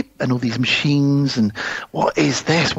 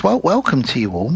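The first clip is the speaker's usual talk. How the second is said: creepy robotic voice. Retold or imitated. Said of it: "a weird robotic voice".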